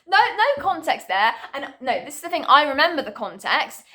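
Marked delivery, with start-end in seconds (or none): 0.1-1.3 laughing. Real, not acted. Laughing at the odd text.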